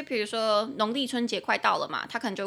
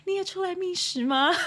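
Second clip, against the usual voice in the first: high, playful spooky hello cracking into laughter; laughing mock ghost voice; mock ghost greeting; 10 semitones higher, 7 dB louder than usual. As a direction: tease like a friendly ghost, giggling. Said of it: "会有人大念脏话说".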